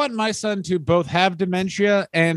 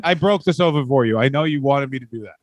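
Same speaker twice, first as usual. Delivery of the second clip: higher, earnest doofus husband boasting; dim proud husband; 4 semitones higher than usual. Acted. Wrestler telling wife he broke the sofa, earnest doofus pride. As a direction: proudly explain the dumb thing like a big child.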